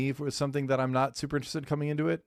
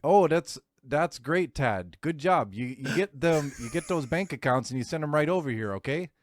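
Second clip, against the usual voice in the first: mock Canadian; 2 semitones higher than usual. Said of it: "Everyone's Canadian".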